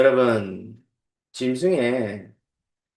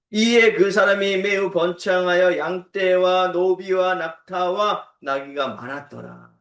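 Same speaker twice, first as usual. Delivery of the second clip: slow, measured recitation; scripture reading; 3 semitones higher, slower than usual. Real, not acted. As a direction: read the verse out deliberately. Reads the scripture verse aloud.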